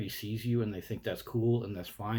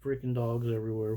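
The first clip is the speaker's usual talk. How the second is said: mock gushing; 2 semitones higher than usual. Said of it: "present yourself with your dogs like".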